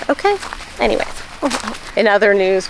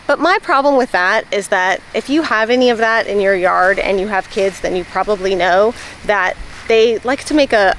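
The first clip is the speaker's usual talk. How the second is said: lispy with retainers. Real, not acted. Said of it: "so I get a little lispy".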